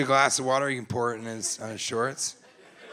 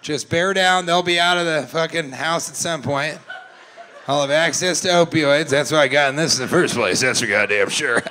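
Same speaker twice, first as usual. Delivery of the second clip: imitating the dad. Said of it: "this guy in the middle is like".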